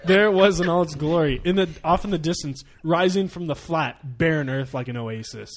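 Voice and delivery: slowing, falling storyteller delivery; dramatic story narration. A narrator's reading. Podcast guest reading out the Flavortown story, slowing dramatically.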